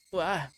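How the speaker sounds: sudden loud high yelp; startled yelp. Acted. Boy caught by a hidden trap, startled loud yelp. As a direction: jump at the shock with a yelp. Trap springs under his foot.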